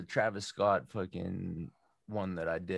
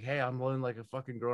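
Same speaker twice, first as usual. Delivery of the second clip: higher, quick mocking echo; 4 semitones higher, faster than usual. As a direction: parrot the boss's insult back, no yelling. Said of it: "And I went like this".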